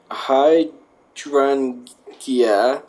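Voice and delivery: hydrangea, whispered slowly; hydrangea, drawn out in a hush; careful whisper. Shown as a demonstration. Sounding out a hard flower name, slow whisper. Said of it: "the blue hy".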